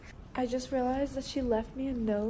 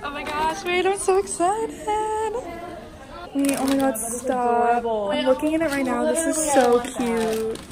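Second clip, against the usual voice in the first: excited; 2 semitones higher, 6 dB louder than usual. Real, not acted. Opening sorority big's gifts.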